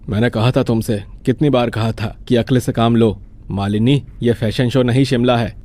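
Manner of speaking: mildly stern husband's reproach; angry, worried scolding. Acted. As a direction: scold her with a touch of worry. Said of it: "गुस्सा और चिंता का अजीब मिश्रण". (चिंता भरी हल्की डांट)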